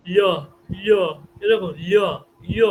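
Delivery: isolated semivowel, spaced out for copying; demonstrated semivowel sound. Shown as a demonstration. Teacher showing students how to pronounce it, demonstrated semivowel. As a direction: say each ল as a separate model syllable. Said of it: "এরকম করে উচ্চারণ করতে হবে".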